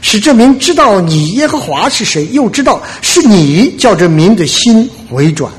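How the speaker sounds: reads Elijah's prayer aloud as from the Bible; reading the prophet's prayer to the congregation, solemn; scripture reading. Shown as a demonstration. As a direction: lift the prayer off the page, earnest. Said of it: "我给大家读一下".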